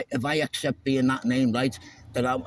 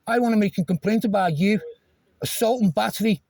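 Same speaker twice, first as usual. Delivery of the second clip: loud, higher, demanding to report a crime; shouting; 8 semitones higher, 4 dB louder than usual. Real, not acted. Driver shouting a complaint at the officer, loud and angry. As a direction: bellow the complaint at him. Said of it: "aggressive shouting at me".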